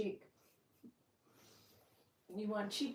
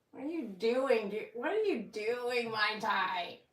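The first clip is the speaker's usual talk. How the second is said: playful scolding; 6 dB louder than usual. Real, not acted. Talking to dog Mai Tai.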